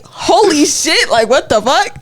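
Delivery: high drawn-out shock falling back to normal; retold stunned amazement, stretched at the start; caught off guard. Recalling the cafeteria accusation, genuinely shocked. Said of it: "Caught off guard".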